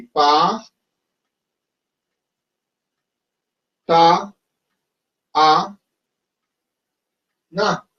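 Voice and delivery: Pa, ta, a, na said slowly, one syllable at a time with pauses; spelled out by syllable. Shown as a demonstration. Teacher writing patán on the board, syllable by syllable. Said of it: "¿yo cómo lo escribiría en hindi?".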